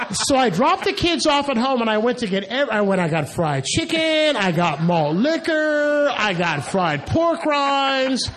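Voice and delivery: high, loud, laughing rush through the list; laughing excitedly. Real, not acted. Telling the audience about buying the food, loud and laughing.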